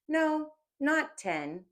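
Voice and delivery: high, slow mock astonishment; mock surprise. A narrator's reading. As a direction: feign amazement at the number. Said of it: "He added in mock surprise".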